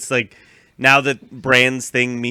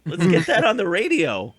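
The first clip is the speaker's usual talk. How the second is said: mock Joffrey; 6 semitones higher, 3 dB louder than usual. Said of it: "Joffrey's like".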